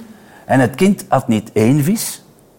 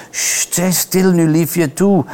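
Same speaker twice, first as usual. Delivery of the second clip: put-on higher-pitched hushing of a baby; coaxing, lightly acted lullaby tone; soothing; 5 semitones higher, slower than usual. A narrator's reading. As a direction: shush the little one tenderly. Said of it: "probeerde haar te sussen".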